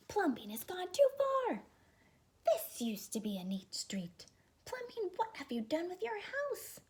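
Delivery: loud, high angry neighbors; outraged shout. Acted. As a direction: yell at Plumbean from the street. People shouted.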